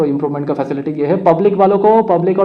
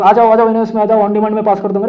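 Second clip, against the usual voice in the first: imitating touts calling out, higher pitch; mildly mock a pushy tout's call; mock hawker's shouting; 4 semitones higher than usual. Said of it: "चिल्लाते होंगे मतलब कोई लोग". (दलालों की नकल में हल्की पुकार)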